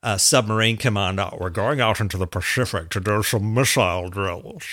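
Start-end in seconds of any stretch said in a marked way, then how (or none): 1.4-4.6 lightly voiced Sean Connery Scottish accent; a hint of a Scottish accent. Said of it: "Scottish accent for a Russian".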